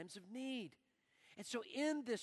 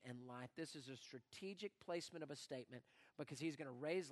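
hushed altar call; 8 semitones lower, 7 dB quieter than usual. Real, not acted. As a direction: drop to a near whisper, much softer. Quiet closing reflection.

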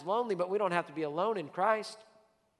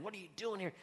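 gentle, softer, kindly asked; not mad; 2 semitones higher, 8 dB quieter, faster than usual. Shown as a demonstration. God gently asking the believer in the cave, not mad. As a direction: ask it with no anger at all. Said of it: "Not mad".

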